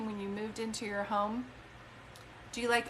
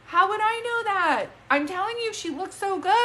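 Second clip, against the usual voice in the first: much higher and louder, bursting with excitement; thrilled amazement; 9 semitones higher, 7 dB louder than usual. Real, not acted. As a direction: cry it out, amazed it landed. Medium amazed, hits a detail.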